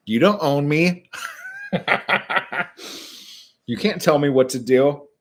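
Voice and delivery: defiant mock. Defiant mock reply, loud high.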